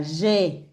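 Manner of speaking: "je" said as "jé", lips spread; smiled JE. Shown as a demonstration. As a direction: smile on "je" to make it "jé". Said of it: "este es tipo sonrisa". («je» como «jé», con sonrisa)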